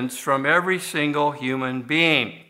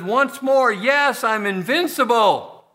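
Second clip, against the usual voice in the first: high, arms-raised victory cry; triumphant villain boast; 7 semitones higher, slower than usual. Retold or imitated. The villain Boris crowing to the world that he survived, high and triumphant. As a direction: crow it like a gloating villain.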